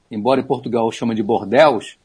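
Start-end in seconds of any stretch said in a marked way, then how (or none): 1.2-2.0 Bordeaux turned into "bor-déus"; Portuguese pronunciation. Shown as a demonstration. Expert cites Portugal's name for it, Bordeaux as "bor-déus".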